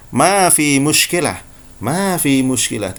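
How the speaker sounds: slow, deliberate Saudi Arabic phrasing; Saudi Arabic accent. Shown as a demonstration. Teacher demonstrating Saudi Arabic to students, slow and clear. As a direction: say it like a Saudi local, unhurried. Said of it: "orang Saudi akan mengatakan".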